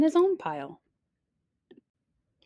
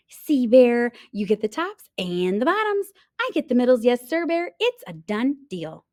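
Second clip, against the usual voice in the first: louder, higher, smug; gloating hare; 4 semitones higher, 4 dB louder than usual. Acted. Hare gloating over tricked bear. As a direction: gloat brightly.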